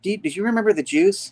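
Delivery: a light hammed-up fussy mother; mom voice.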